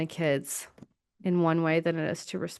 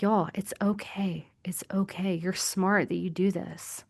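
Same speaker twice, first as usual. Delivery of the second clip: whispered reassurance; 5 dB quieter than usual. Acted. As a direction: hush them gently, like soothing a child. Soothing listeners who intellectualize.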